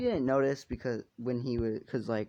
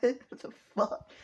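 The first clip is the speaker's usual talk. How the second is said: mock shock; 12 semitones higher, 4 dB louder, slower than usual. Character's acted shocked reaction.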